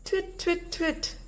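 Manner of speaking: a little owl calling into the woods. Acted. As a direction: call high like a small owl. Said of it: "called Olive".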